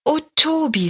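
put-on high, glad young girl; lightly voiced girl, pleased and high; freudige Mädchenstimme. A narrator's reading. Mädchen Rosalie freut sich. (freudige, helle Mädchenstimme)

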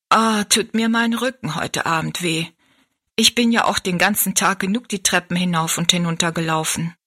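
lightly voiced weary servant girl; a hint of an overworked maid complaining; tired kitchen maid. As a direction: maid grumbling about her aching back.

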